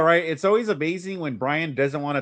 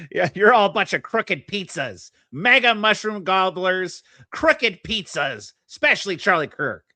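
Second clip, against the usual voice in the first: joking; 3 semitones higher than usual. Real, not acted. Co-host jokes on misheard words.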